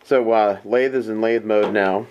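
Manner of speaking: muffled through a full-face helmet; inside a helmet. Real, not acted. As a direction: talk from inside a dirt bike helmet. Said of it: "Sorry for the dirt bike helmet".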